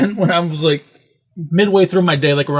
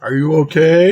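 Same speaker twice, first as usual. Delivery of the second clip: lightly imitated boss busting chops; a hint of joking boss; teasing boss. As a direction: ask with mock concern, rising at the end. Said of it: "trying to be boss funny".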